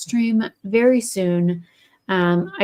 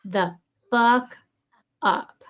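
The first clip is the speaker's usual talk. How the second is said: drawn-out, deliberate shut the fuck up; slow fed-up retort; 3 semitones higher, much slower than usual. Retold or imitated. Bank rep wishing she could tell the caller off, slow and fed up. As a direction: spell it out slowly, fed up. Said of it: "all I wanna say is".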